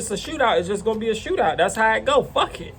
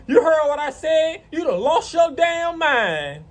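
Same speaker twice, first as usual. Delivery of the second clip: neighbor's angry challenge; 7 semitones higher than usual. Retold or imitated. Acted quarrel, neighbor confronts him.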